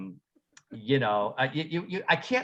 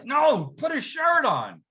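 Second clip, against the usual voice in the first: firm order; 10 semitones higher, slower than usual. Retold or imitated. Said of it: "I said".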